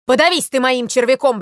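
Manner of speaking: loud, spiteful outburst; acted indignant shout; angry scolding. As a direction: curse him like a cheated sparrow. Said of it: "бранился Воробей Воробеич".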